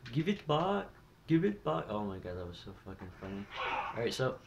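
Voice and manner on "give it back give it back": higher-pitched mock yell; hammed-up outraged shopkeeper cry; mock screaming clerk. Gamer acting out a shop worker chasing thieves, mock screaming. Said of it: "come running out with a shotgun screaming".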